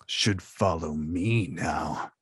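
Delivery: Jar Jar voice. Retold or imitated. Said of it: "I'm gonna do the next one".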